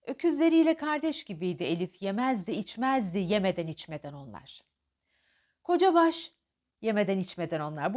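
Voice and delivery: affectionate, smiling recital; tender. Shown as a demonstration. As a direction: say it with a smile. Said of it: "Burada gülümsüyorum". (gülümseyerek sevecen)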